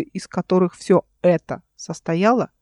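plain reading voice

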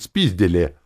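jolly bellowed punchline; cheerful yell. A narrator's reading. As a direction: shout it out merrily. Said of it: "весело заорал друид".

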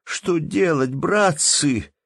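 a poor peasant wringing his hands, despairing; despairing cry. A narrator's reading. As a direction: cry out helplessly. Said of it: "воскликнул снова бедный мужик, ломая руки".

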